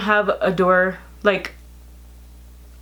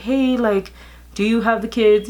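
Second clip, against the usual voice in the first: higher, brighter friendly ask; friendly version; 3 semitones higher than usual. Shown as a demonstration. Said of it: "It wasn't like".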